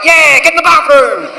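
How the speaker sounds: put-on high, drunken cheer along; wasted egging on. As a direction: join in like a drunk mate. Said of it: "I'm so wasted, I'm getting involved".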